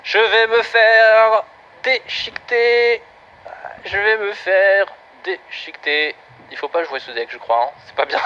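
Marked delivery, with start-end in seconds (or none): 0.0-6.2 slow, stretched mock despair; hammed-up slow wail of doom; drawn-out dread. Real, not acted. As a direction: drag each word out in comic doom. Watching his defence collapse.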